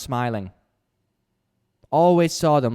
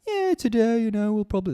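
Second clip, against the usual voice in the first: high-pitched imitated Indian accent; 11 semitones higher than usual. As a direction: chat casually in a put-on Indian accent. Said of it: "Indian accent".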